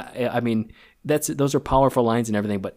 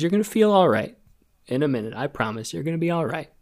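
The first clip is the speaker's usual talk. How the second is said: higher, softening voice catching with emotion; choked up; 4 semitones higher, faster than usual. Real, not acted. Retelling the nurse's promise to the patient, choked up. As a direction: reassure while fighting back real tears. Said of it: "sorry, I choked up there".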